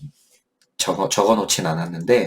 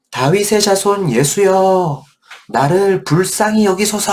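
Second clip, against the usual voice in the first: crying out loud; 9 semitones higher than usual. Acted. Blind beggar crying out to Jesus for mercy, loud and pleading. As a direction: cry out to Jesus from the roadside. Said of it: "이렇게 소리 지른 거예요".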